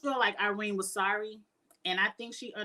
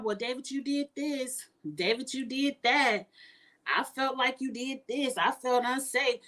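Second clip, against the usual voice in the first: whiny mock Beth voice, pitched up; 3 semitones higher than usual. Mocking Beth as she blames David, a pitched-up put-on voice. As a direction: imitate Beth playing the victim.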